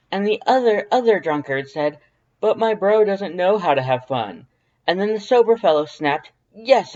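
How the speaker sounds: high, loud, proud skeleton voice; Papyrus storytelling voice. A narrator's reading. Papyrus telling Dance about the beach, high and loud. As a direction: tell it like a grand proud skeleton. Papyrus narrating his tale.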